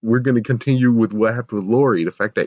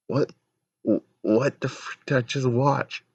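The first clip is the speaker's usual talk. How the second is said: baffled disbelief; 4 semitones higher, 4 dB quieter than usual. Real, not acted. Baffled rant at the show.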